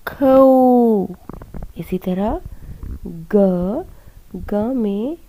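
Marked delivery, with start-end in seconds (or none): 0.1-1.1 loud, clear खो for the class to repeat; model syllable खौ. Shown as a demonstration. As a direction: call out खो like a teacher. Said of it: "एक बार फिर से बोलिए". (ज़ोर से "खो" बोलकर दिखाना)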